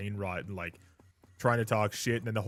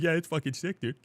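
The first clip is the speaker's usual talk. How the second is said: sarcastic hype; 6 semitones higher than usual. Retold or imitated. Mock enthusiasm at party.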